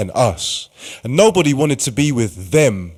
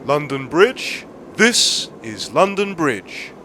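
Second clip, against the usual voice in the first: station announcement; 5 dB quieter than usual. Acted. Station tannoy telling passengers the rules, calm and official. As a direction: read it like a recorded platform tannoy.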